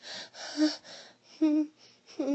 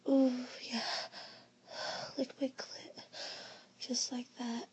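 aroused moaning; 3 semitones higher than usual. Acted. Being pleasured.

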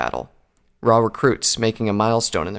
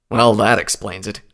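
lightly scornful stallion; tinge of derision; 3 dB louder than usual. Acted. Recruit scoffs at Applejack's explanation, a tinge of derision. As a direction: dismiss it with mild derision. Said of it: "said with a tinge of derision".

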